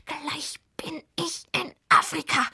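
high, strained witch voice; stubborn, angry insistence; furious straining. A narrator's reading. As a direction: force it out word by word, pitched high. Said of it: "zwickte sich noch wütender".

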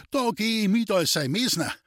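high, eager dialect call; delighted call. A narrator's reading. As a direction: pipe up gladly, pitched high. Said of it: "rief der Hüter Hannes erfreut".

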